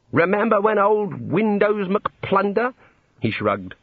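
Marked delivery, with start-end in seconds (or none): 0.1-2.7 slow, higher-pitched mimicry of an old boy; old wizard reminiscing. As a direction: relish the memory, mimicking a boastful old wizard. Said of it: "They say things like".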